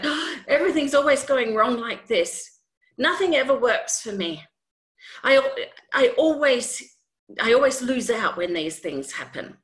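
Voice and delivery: a hint of a despairing moan; lightly voiced gloomy complainer; whiny complaining self-talk. Acting out negative self-talk.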